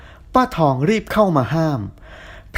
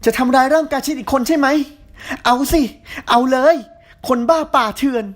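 raising her voice; 8 semitones higher than usual. A narrator's reading. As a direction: dare him to hit her. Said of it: "แพรชมพูเริ่มขึ้นเสียง".

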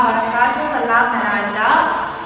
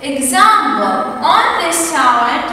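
slow drill; much slower than usual. Shown as a demonstration. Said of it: "teacher slow announcement".

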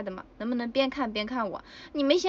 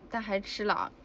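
ordinary talk, nothing marked

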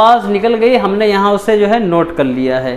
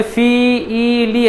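each syllable said apart with a pause; separated syllables; 3 semitones higher, much slower than usual. Shown as a demonstration. Teacher showing the wrong way to students, syllables split apart. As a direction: read them one by one, not joined. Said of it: "ऐसे नहीं पढ़ना है".

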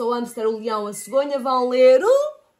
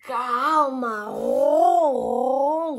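lightly voiced purring cat; much slower than usual. A narrator's reading. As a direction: roll the ron like a purr. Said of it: "ronrona o gato".

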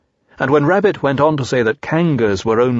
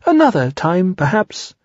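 comforting Piglet; 7 semitones higher than usual. A narrator's reading. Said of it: "said Piglet comfortingly".

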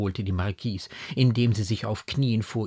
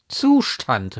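louder, falling exclamation; emphatic maternal outburst; incredulous cry; 4 semitones higher, 8 dB louder than usual. A narrator's reading. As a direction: throw the word back in disbelief. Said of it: "rief die Mutter wieder".

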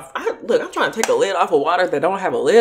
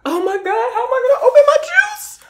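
laughing; 14 semitones higher, 3 dB louder than usual. Real, not acted. Laughing helplessly at the stuck lid.

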